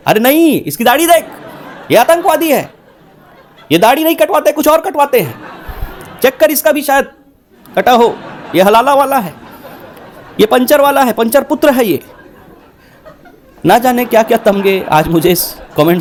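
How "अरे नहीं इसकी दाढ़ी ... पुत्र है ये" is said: mocking troll. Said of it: "लोग बोलेंगे".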